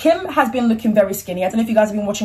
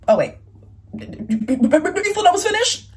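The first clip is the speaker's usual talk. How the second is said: teasing tease; 8 semitones higher, slower than usual. Pretend. Teasing viewers after the intro.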